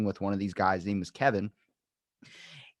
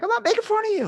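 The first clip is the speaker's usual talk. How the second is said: very high mock-defensive squeal; high-pitched protest; 4 dB louder, faster than usual. Defending himself to offended friends, high mock protest.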